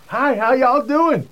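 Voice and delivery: slow, high Southern drawl with a folksy greeting; Texan drawl impression. New Texan boss greets New York staff in a Southern drawl. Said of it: "there's B R waiting with a smile".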